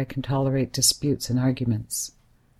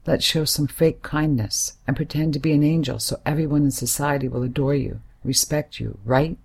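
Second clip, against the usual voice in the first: raised, bitter and accusing; angry outburst. Acted. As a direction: lash out at him, voice pushed up.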